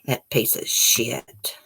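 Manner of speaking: drawn-out contemptuous curse, voiced; slow disgusted curse. Real, not acted. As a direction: drag out every word in contempt. Repeats curse, slower.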